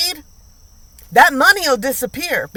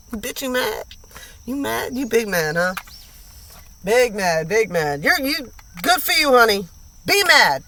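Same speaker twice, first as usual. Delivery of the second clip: teasing taunt. Acted. Taunting an angry man.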